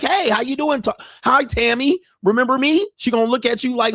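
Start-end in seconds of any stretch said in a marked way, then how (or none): 0.0-2.8 high, hopeful voice of a guy who thinks she remembers; eager sucker greeting. Retold or imitated. Eager regular greeting the stripper he thinks knows him.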